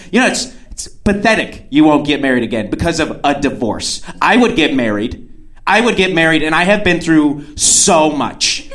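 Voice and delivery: imitated indignant rant, rising in pitch; really mad. Date rants that she would get married, really mad. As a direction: build to a heated, emphatic protest. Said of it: "getting really mad".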